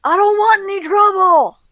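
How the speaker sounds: high-pitched yell from another room; high, strained holler. Acted. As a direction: call out loudly to keep strangers away. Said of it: "kinda someone yelling out".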